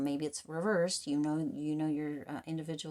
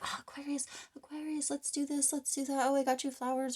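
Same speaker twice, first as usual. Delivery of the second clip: much higher mock sweet-talking voice; hammed-up high flattering lover; love bomber; 9 semitones higher than usual. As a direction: coo at them like a charmer reeling someone in. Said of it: "they're like".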